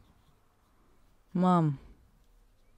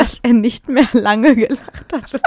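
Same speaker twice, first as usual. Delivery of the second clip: slow, laughing quote leaning on "nicht mehr lange"; mocking misread quote; 3 semitones higher, 6 dB louder, slower than usual. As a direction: tease the misread word order, giggling through it. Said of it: "was hab ich denn gesagt?".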